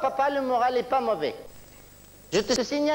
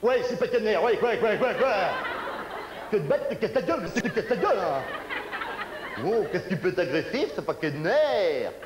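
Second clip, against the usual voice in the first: irritable grumbling voice; 5 semitones lower than usual. Acted. Nervous character snapping back.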